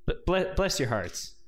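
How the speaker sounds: hammed-up Southern clergyman accent; progressive Texas accent. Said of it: "I love the progressive accent".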